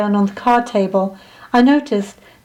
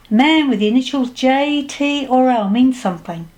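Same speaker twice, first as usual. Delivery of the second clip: psychic voice, pitched up; fortune-teller reading leaves; 3 semitones higher than usual. Acted. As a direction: spell out the omen as the psychic. Psychic reads the tea leaves.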